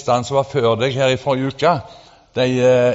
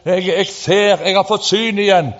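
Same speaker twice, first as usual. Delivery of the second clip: higher, louder joyful cry; retold cry; 6 semitones higher, 3 dB louder than usual. Preacher quoting healed people, mock joyful shout. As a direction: exclaim like someone who can see again. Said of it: "ropte de".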